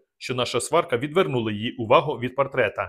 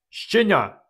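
a much higher, loud bark of "Щеня"; shouted insult; 8 semitones higher, 4 dB louder than usual. A narrator's reading. Dubatovk scolding Vorona, loud and much higher. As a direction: roar the insult. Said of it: "вигукнув він".

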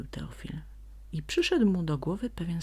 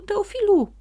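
loud, high repeated call; calling louder; 10 dB louder than usual. A narrator's reading. Sprite keeps calling the donkey from far off, loud and high. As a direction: call out again, urgent. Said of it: "wołał już z daleka".

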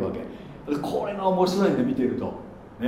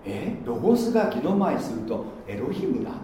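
confused outsider; 4 dB quieter than usual. Retold or imitated. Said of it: "こうなっちゃうわけ".

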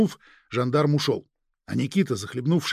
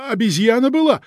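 exclaiming; 8 semitones higher, 7 dB louder than usual. Acted. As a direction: burst out with high, loud conviction. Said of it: "воскликнул Никита". (восклицая)

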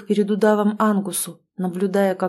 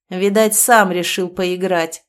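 slow louder nasty sneer; mocking sneer; 4 dB louder than usual. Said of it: "злая усмешка Ангуса". (злая усмешка)

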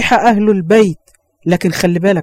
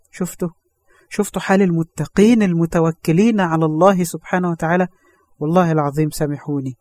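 tearful prayer; 3 semitones lower, 5 dB quieter than usual. Real, not acted. Preacher emotional prayer.

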